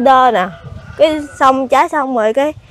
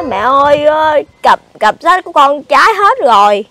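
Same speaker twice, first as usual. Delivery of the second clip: louder, imitating a tearful child's wail; retold crying child; 6 dB louder than usual. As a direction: retell the child's cry to Mom, raised voice. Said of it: "Nó khóc, nó nói". (giả giọng con khóc mách mẹ)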